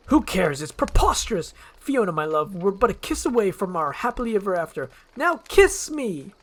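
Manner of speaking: high, loud, impatient lord; high and loud, dragging out the last words; pompous Farquaad. Acted. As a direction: demand the kiss, puffed up and high.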